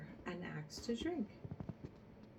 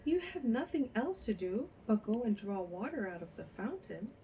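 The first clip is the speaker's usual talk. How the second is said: higher and louder, eager calling; crying out eagerly; 4 semitones higher, 4 dB louder than usual. A narrator's reading. A mother calling Fanny to come get the same gift, eager loud calls. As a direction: call the other daughter over in a rush of greed. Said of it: "cried the mother".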